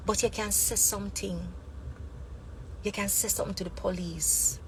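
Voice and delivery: soft, confiding aside; hushed advice. Shown as a demonstration. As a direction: drop the voice right down, as if passing a secret. Lowers voice to advise reporting.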